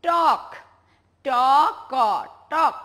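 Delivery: টক said loud, then ট and ক separately, then টক again; spelled out. Shown as a demonstration. Teacher spelling out টক sound by sound for children. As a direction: break টক into ট and ক, then rejoin. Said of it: "আরেকটি শব্দ".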